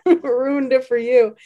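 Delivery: high, loud laughter breaking through the words; can barely get the words out for laughing; laughing hard. Real, not acted. Host cracking up at her co-host's joke, laughing hard.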